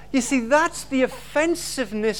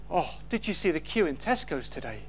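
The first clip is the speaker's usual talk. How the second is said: petty moan; 8 semitones lower, 7 dB quieter than usual. Retold or imitated. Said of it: "This is no".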